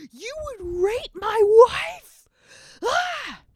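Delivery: high, loud, slow roaring rage; furious outburst. Acted. The king catches Haman on his wife, furious roar. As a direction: explode in fury. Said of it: "he's so furious".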